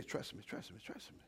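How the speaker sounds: soft whisper of God's voice; hushed, intimate whisper; whispered trust me. Acted. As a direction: breathe it like a secret promise.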